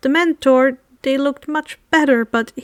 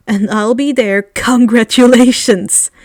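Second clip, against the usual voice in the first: excited; 6 dB louder than usual. Acted. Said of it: "the Dementor exclaimed excitedly".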